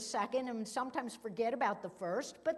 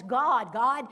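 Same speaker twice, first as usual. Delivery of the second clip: insistent; 3 semitones higher, 6 dB louder than usual. Real, not acted. Preacher insisting to congregation.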